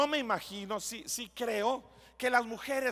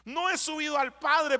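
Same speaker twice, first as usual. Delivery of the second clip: Jesus gently warning; 3 semitones higher than usual. Retold or imitated. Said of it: "Y le dijo".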